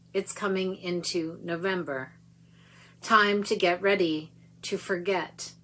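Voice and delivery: slow, measured poetry reading; poem reading. Acted. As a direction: read the poem with weight. Reads the poem.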